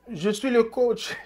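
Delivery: lightly voiced stubborn coach; a hint of a defiant coach; imitating the coach. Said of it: "Bruce aussi voulait dire".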